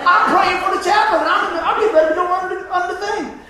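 excited retelling. Real, not acted. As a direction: tell it like you can't believe it yourself. Laughs recounting praying before surgery.

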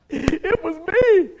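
high, loud, drawn-out confession; laughing punchline reveal. Real, not acted. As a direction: shout the reveal slowly through a laugh. Punchline reveal of own story.

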